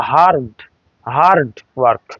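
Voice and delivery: হার্ড with a sounded American R; American R in hard. Shown as a demonstration. English teacher models American hard, R sounded. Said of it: "আর উচ্চারণ করে আমেরিকানরা".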